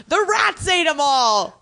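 high, laughing through the words. Retold or imitated. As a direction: crack up while quoting the dad. Quoting the dad, laughing.

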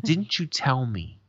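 slow, drawn-out reproach; accusing. Retold or imitated. Grandfather to grandson about a broken promise, slow accusing. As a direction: imitate a grandfather pointedly confronting someone.

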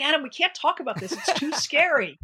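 nervous laugh. Retold or imitated. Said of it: "I'm like".

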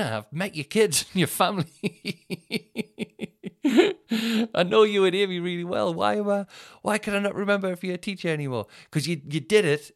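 high, loud, laughing through the words. Real, not acted. Talking to mate Chris, laughing helplessly. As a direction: laugh at yourself while you talk.

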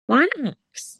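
high, horrified question; appalled. Real, not acted. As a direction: ask it aghast. Reacting to "axe wound.

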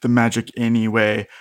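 measured game master narration; scene-setting narration. A narrator's reading. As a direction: lay out the scene deliberately.

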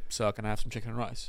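understated, courteous customer asking quietly; polite request. Shown as a demonstration. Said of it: "you could have just said".

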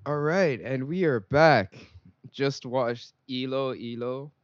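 put-on Singlish accent, slow and drawn out on the return. Host announcing they're back, in a playful Singlish accent. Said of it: "I'm gonna do my best Singlish accent".

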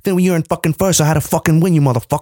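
quick, sweary mock tough guy; De Niro. Podcaster as Alonso ranting about Lewis, De Niro impression. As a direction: play a ranting movie gangster, rattled off fast. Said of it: "doing faces like De Niro".

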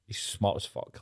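breathy whisper, no voice at all; whispered quote. Retold or imitated. Mom assures teachers her son is ready, whispered. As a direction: let mom's brag slip out in a whisper.

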